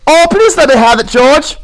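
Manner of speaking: put-on high childlike plea; high pleading stammer; begging Lenny. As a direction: beg like a child.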